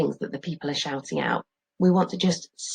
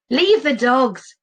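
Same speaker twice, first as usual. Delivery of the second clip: louder, slow counter-order; shout; 8 semitones higher, 6 dB louder, slower than usual. Acted. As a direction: shout back the opposite. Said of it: "shouts someone else".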